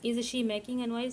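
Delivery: very slow, word by word for students to write; slow, careful dictation pace. Shown as a demonstration. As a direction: spell it out slowly for the class to copy. Teacher dictating English question.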